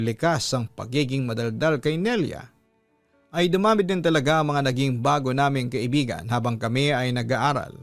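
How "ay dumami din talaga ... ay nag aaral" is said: ordinary delivery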